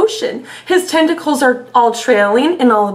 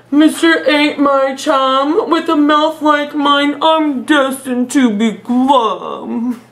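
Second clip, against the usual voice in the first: slow glum fish; slower than usual. Acted. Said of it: "doing the silly voices".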